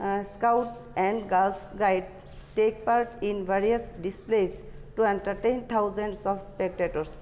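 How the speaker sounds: slow, deliberate read-aloud for students; slow dictation reading. Acted. Teacher dictating the English passage slowly to students. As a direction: read each phrase slowly so the class can follow.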